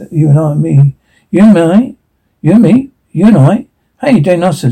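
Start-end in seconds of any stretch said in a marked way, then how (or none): 1.3-3.7 mock his words like a schoolteacher; mocking grammar correction.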